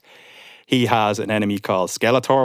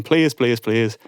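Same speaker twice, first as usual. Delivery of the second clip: mock begging; much slower than usual. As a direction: beg your dad to let you keep the film. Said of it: "I was begging".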